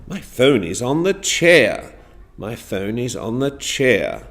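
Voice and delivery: "chair" drops down at the end; lively line, then let "chair" fall; falling intonation on CHAIR. Shown as a demonstration. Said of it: "So on chair we went down".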